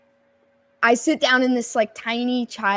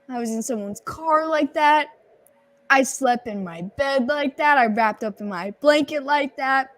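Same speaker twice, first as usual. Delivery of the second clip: higher-pitched retold dismay; mock horror; 4 semitones higher than usual. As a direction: list it in raised-pitch disbelief. Retelling own horrified realisation.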